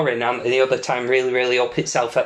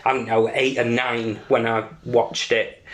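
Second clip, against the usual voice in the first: normal talking voice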